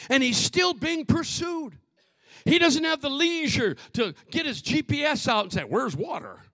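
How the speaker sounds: high-pitched, urgent preacher; forceful preaching. Real, not acted. Preacher describing a hunted deer, urgent forceful preaching.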